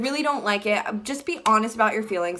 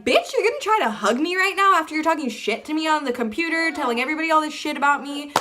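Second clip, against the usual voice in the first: retold angry outburst; 4 semitones higher, faster than usual. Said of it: "I was freaking livid".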